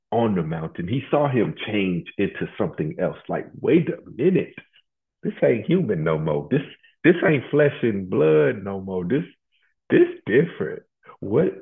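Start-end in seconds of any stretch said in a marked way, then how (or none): 3.6-11.5 high, incredulous double take; astonished Peter. Acted. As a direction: act out mock astonishment, pitch jumping up. Acts Peter's shock at transfiguration.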